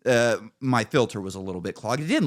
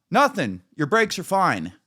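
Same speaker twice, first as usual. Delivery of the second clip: higher and louder, breezy dismissal; imitating the mechanic; 7 semitones higher, 4 dB louder than usual. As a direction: brush it off like the shop guy, pitched up. Mechanic says brakes are fine.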